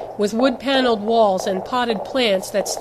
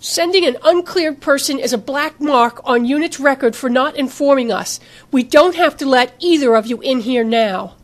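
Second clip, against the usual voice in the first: put-on louder, raised New York accent; grating New York accent; 4 semitones higher, 5 dB louder than usual. A narrator's reading. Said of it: "spoke up in that grating accent".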